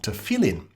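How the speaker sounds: "tefillin" as tuh-FILL-in, falling at the end; preferred pronunciation. Shown as a demonstration. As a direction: say "tefillin" firmly with stress on FILL. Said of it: "the pronunciation".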